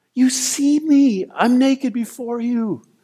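tearful, weeping cry. Retelling being prayed for by a prayer team member, reenacting weeping prayer. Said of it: "I just began to weep from the depth of my gut".

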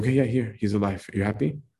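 put-on, mock-disinterested indifferent tone. Retelling the raising of Lazarus, voicing the Lord, mock-disinterested. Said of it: "how disinterested God was in this act".

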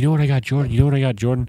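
fast, eager, excited, with words repeated. Retelling a brother eager to tell about a gift: imitating excited brother. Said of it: "he was so excited".

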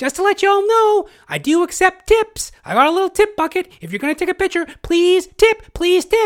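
very high, nervous, pleading voice. Retelling a Spider-Man street performer asking people for tips, imitating a nervous voice. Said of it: "Real, like, nervous".

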